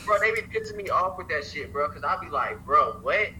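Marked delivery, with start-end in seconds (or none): 2.7-3.3 incredulous mock outrage. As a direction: act stunned they'd expect less of you. Retelling his reply to condescending people.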